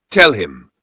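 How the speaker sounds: loud, forceful command; demanding. A narrator's reading. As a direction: bark the order at her. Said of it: "Chief Okonkwo demanded".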